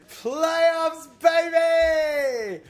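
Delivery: high, loud victory yell; excited shout. Real, not acted. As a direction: whoop it out like the team just clinched. Celebrating team making playoffs.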